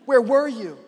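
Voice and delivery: mildly acted reproach; a restrained, hurt demand; upset, frustrated. Martha confronting Jesus on arrival, mildly upset. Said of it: "She's upset, and she's frustrated".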